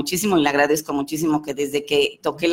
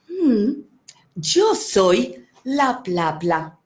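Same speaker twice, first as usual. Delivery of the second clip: lazy little ink creature; 3 semitones higher, much slower than usual. Acted. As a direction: let the blot take its time, unbothered. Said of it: "ink blot answers the boy".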